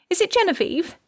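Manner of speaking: high, anxious question; dreading bad news; fearful. A narrator's reading. Mother asking police about her daughter, fearful.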